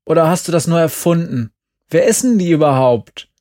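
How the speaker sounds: urgent. A narrator's reading. Glenn urgently pushes to leave.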